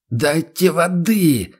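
high, slow rasping cry for water; hoarse whispered cry. A narrator's reading. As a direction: cry out through a parched throat. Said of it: "сиплым шёпотом выкрикнул". (сиплый выкрик шёпотом, выше и медленно)

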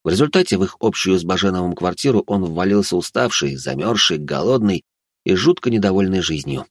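ordinary delivery

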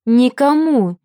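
rising cry, loud and high; wail. A narrator's reading. Agnesa crying out at the hero before the kiss, loud. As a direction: yell the word out, stretching the second. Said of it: "Вопль Агнесы".

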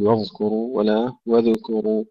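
واذكروا first with heavy ذ, then with ذ bounced; mis-say واذكروا, thickening or bouncing the ذ; wrong dhal. Shown as a demonstration. Teacher warning students of mistakes, faulty ذ in واذكروا. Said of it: "الذال فيها رخاوة لا نقلقلها".

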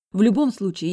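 put-on high, loud girl's voice on В любом случае; В любом случае in the high sister voice; high defiant girl saying В любом случае. A narrator's reading.

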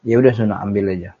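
quick, dismissive brush-off; curt. Acted. Wife brushing off her husband's request, curt. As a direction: toss it off curtly. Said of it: "kok sekarang ngomongnya ketus ya".

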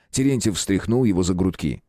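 ordinary delivery

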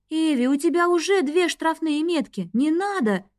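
coaxing. A narrator's reading. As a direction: gently talk her out of it. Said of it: "уговаривала я её".

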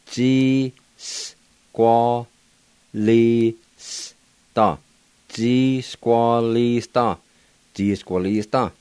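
"G squalista" said slowly, syllable by syllable; Cherokee pronunciation. Shown as a demonstration. Teacher pronouncing blackbird in Cherokee for learners, slowly. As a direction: draw out "G squalista" in careful Cherokee. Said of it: "now I'll go back and pronounce them".

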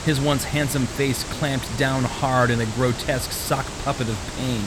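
measured, even audiobook reading; story narration. A narrator's reading. Author reading his suspense novel aloud, steady narration. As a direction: read the thriller scene steadily to listeners.

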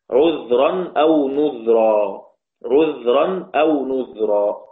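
slow deliberate Quran recital; slow recited phrase; slow recitation. Shown as a demonstration. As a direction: draw the words out as in recitation. Reciting the verse words.

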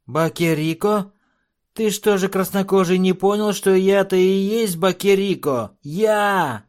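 very high, loud, slow dwarf screech; shrieking dwarf. A narrator's reading. Dwarf revealing himself to chief, high screech. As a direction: screech out who you are.

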